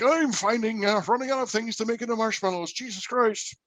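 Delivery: high put-on leprechaun accent; squeaky Irish leprechaun accent; Lucky leprechaun accent. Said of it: "And Lucky's even like".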